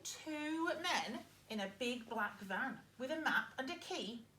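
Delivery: put-on lively read-aloud for young children; story narration. Teacher reading a farm story to her pupils, lively. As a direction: read it like a picture book to a class.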